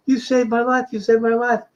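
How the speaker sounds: high, gushing voice of the fan; retold stranger thanking the composer, high and gushing; imitating the grateful woman. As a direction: play her overwhelmed thanks, pitched well up. Woman bows down thanking him.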